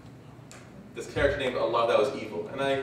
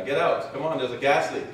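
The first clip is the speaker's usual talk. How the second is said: lazy, unconvinced call to get out; half-hearted warning. Shown as a demonstration. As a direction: say it without believing it. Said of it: "the tone of my voice indicates to you that certainty is very, very low".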